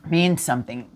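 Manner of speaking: speaking through a burp; holding back a burp. Real, not acted. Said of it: "I'm burping".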